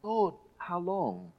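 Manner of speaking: slow, pleading cry of Lord, how long; bold plea. Pretend. Pastor voicing David grabbing God by the scruff, bold slow plea. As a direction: grab God by the scruff and ask. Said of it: "grabbing God by the scruff and saying".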